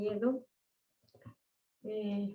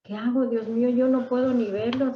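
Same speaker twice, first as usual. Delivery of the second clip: mildly desperate cry to God, louder; retold desperation; 3 semitones higher, 6 dB louder than usual. Wife praying over her sick husband, retold desperation. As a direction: plead a little louder, recalling helplessness. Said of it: "me desesperé".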